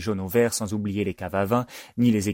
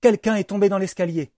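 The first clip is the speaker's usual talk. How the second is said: high, loud alarm; urgent shout in a raised pitch; calling out; 12 semitones higher, 5 dB louder than usual. A narrator's reading. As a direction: call the news up the stairs. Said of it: "s'écrie la voix de Louis Edmond".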